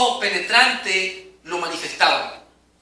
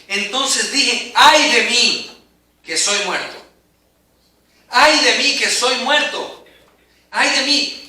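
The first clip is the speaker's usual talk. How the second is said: slow, louder cries of dread; terrified lament; 3 semitones higher, 3 dB louder, slower than usual. Acted. Preacher reading Isaiah's cry aloud, slow and terrified. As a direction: read it as a man who thinks he'll die. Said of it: "Isaías estaba temblando, Isaías estaba asustado".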